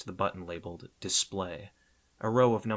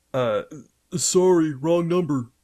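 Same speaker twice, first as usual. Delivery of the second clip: flustered; 9 semitones higher, 12 dB louder than usual. A narrator's reading. Robin panics and hangs up.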